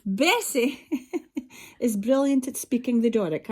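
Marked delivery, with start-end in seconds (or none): none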